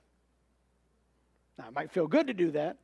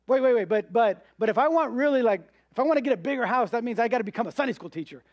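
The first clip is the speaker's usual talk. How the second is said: higher, louder, rushed protest; flustered objector; 4 semitones higher, 4 dB louder, faster than usual. Pretend. Preacher voicing an anxious churchgoer, rushed and raised. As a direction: blurt it out fast like a worried believer.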